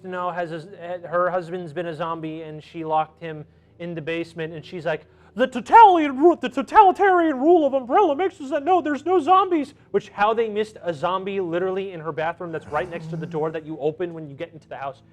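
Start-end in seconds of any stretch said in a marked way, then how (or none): 5.3-9.7 put-on old lady. Old lady voiced in recap.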